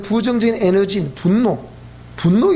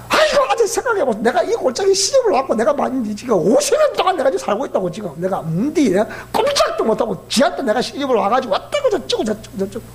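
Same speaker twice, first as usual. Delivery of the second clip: put-on Gyeongsang dialect old woman. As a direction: pour out grievances in Gyeongsang dialect. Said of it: "경상도 버전으로 얘기하지요".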